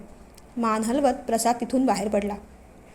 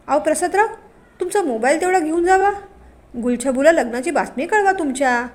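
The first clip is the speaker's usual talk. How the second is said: higher and louder sneering headman; mocking patil; 4 semitones higher, 4 dB louder than usual. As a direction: taunt him with fake courtesy. Aaba mocks his son.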